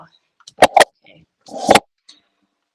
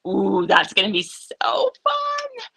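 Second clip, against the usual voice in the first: excited whisper; 7 dB louder, slower than usual. Real, not acted. Excited about red sparkle.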